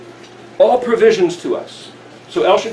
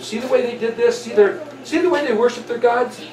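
sightseeing guide; 4 semitones higher, 4 dB quieter than usual. Acted. Acts Yahweh pointing out sights.

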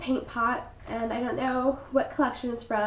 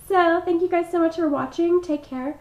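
hoarse, croaky frog voice; 5 semitones higher, 5 dB louder than usual. Real, not acted. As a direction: talk through a croaky frog voice. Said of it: "putting up with the frog voice right now".

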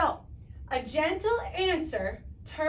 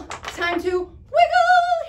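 excited; 12 semitones higher, 7 dB louder, much slower than usual. Acted. Excited call to kids.

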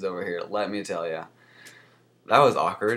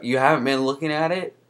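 mock doctor disbelief; 6 semitones higher, 7 dB louder than usual. Doctor voiced in retold visit.

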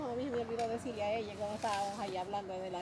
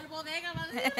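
laughing; 4 semitones higher, slower than usual. Real, not acted. Laughing at own slip.

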